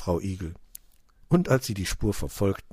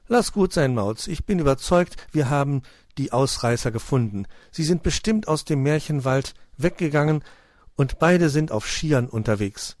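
raised, loud, convinced hare voice; hare Hoppel, confident; 7 semitones higher, 5 dB louder than usual. A narrator's reading. Hare to cat about the runaways, confident. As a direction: explain it as a sure-footed storybook hare.

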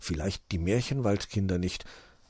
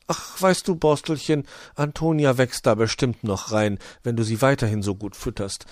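higher, soothing mum voice; lightly higher mother reassuring her son; hedgehog mother; 4 semitones higher, 4 dB louder than usual. Acted. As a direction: coax the boy along gently.

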